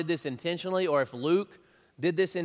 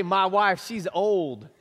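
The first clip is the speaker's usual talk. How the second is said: put-on louder, blunt "My wife, she's old"; blunt version; 3 semitones higher, 5 dB louder, slower than usual. Shown as a demonstration. Pastor contrasting the tactless way to say it, blunt. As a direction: say it flatly, no tact. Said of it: "He did not say".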